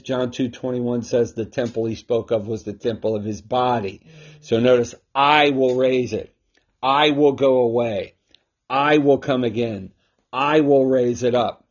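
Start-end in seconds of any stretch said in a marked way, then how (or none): 5.1-11.7 each "I" stressed, falling firmly at the end. Shown as a demonstration. Preacher to listeners on Christ's divinity, stressing each "I". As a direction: make every "I" land like a claim. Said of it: "The I's here emphasizing".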